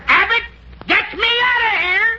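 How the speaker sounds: panicky plea. Acted. Scared of being psychoanalyzed.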